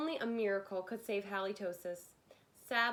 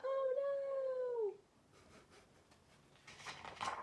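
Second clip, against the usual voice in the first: dismayed cry; 4 dB quieter than usual. Acted. Family reacts to dog breath.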